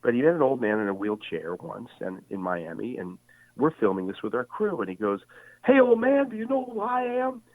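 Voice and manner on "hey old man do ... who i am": put-on much higher, loud brash call to the old man; Muhammad Ali's playful boast. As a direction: boom it out like the champ showing off. Ali teasing an old fan.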